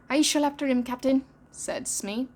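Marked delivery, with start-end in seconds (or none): 0.1-1.2 eager pirate. Acted. Smee eager to chase.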